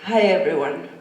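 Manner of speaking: blocked nose, stuffy speech; talking through a stuffy head cold; congested voice. Real, not acted. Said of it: "I'm very congested".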